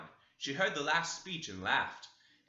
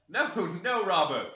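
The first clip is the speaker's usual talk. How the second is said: laughing master; 5 semitones higher, 8 dB louder than usual. Acted. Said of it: "said the old fool".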